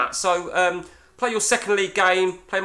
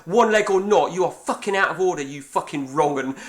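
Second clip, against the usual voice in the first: mock-furious telling-off, slightly raised voice; retold angry outburst. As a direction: re-enact giving someone a dressing-down. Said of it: "I, I lost it".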